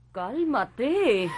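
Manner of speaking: drawn-out, controlled order; firm command. Acted. Mother tries to settle hysterical daughter, firm command. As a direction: order calm without yelling yet.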